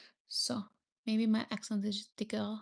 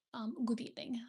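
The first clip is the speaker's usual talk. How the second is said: breathy playful whisper to chat; 3 dB quieter, faster than usual. Real, not acted. Streamer greets her chat viewers in a whisper.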